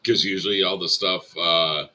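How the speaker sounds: talking around sticky taffy; chewing taffy. Real, not acted. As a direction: speak while chewing toffee. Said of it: "I'm chewing on a taffy right now".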